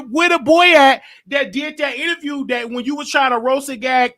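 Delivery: roast her, keep pressing; taunting, mocking. Real, not acted. Taunting Cookie Tookie in comments.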